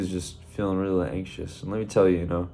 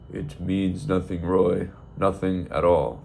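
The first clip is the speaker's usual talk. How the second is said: calm; slower than usual. Acted. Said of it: "very calmly they say, in unison".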